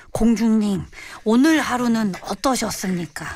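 lightly acted period-drama courtier; a hint of formal court address; historical-drama tone. Shown as a demonstration. Suggesting how to address a princess girlfriend, lightly voiced historical-drama tone. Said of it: "아예 사극 톤으로".

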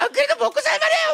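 high-pitched, sunny, laughing reply; cheerfully guileless sister. Acted. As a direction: take the insult with innocent cheer. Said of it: "너무 해맑았죠".

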